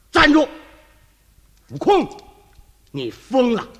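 stern shouted command; loud shout. Acted. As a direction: bark the order at the disciple. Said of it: "大喝一声". (唐僧大喝徒弟，厉声喊)

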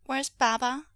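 put-on high, loud anxious child; suddenly frightened little voice; tight with fear. A narrator's reading. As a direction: ask urgently for your missing dad. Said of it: "voice suddenly tight with fear".

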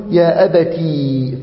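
يا أبتي said slowly, with the ي after the ت of أبتي heard clearly; slow demo pronunciation. Shown as a demonstration. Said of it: "فتقول". (نطق يا أبتي ببطء مع إظهار الياء بعد التاء)

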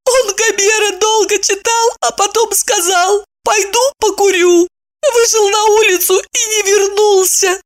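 put-on high, childish young woman; a silly girl explaining earnestly; naive girl voice. Maya explaining to friends, high naive girl voice.

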